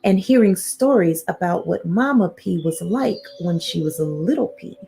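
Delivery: storybook narration with suspenseful pauses; reading to children. A narrator's reading. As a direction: lead little listeners towards a secret. Reads picture book to children.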